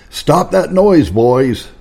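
put-on high, loud shout at rowdy boys; father's shout. A narrator's reading. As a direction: shout it out, slow and high-pitched. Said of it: "the father shouted out".

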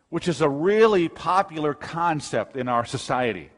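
dry sarcasm at a normal level; sarcastic. Real, not acted. Preacher to congregation on self-denial in society, sarcastic. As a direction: say it deadpan, as if meaning the opposite. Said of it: "I'm obviously being sarcastic".

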